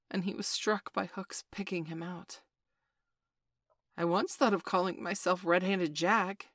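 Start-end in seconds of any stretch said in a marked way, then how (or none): 4.0-6.5 defiant. Acted. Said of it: "he said defiantly".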